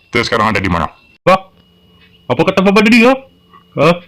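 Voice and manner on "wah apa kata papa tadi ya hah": much higher, startled question; shocked child. Acted. Child startled by Papa's words, high alarmed question. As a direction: snap up in sudden alarm.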